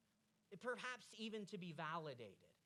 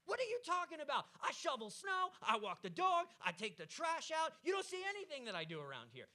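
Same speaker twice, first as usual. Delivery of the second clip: higher, louder, snapping back in defense; defensive husband; 8 semitones higher, 5 dB louder than usual. Acted. Husband snapping defensively at his wife over the socks. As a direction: bristle and throw the chores back at her. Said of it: "Destructive communication would be like".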